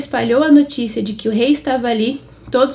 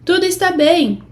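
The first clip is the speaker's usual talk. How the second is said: mild narrated shout; 6 semitones higher than usual. A narrator's reading. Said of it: "Aimaas gritou para o rei".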